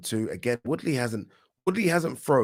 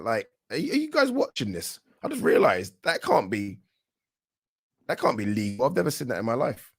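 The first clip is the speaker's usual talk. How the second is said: incredulous. Real, not acted. Can't believe the waistband ad.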